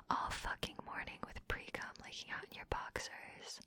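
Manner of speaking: very soft, voiceless taunt; taunting whisper. Acted. Dominant shaming partner, whispered. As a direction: drop into a close whisper.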